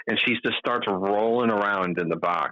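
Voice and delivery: ordinary delivery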